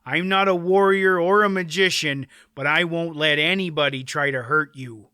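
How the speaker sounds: firm, loyal insistence; stubborn. Acted. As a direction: dig in and refuse. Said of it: "Dernick replied stubbornly".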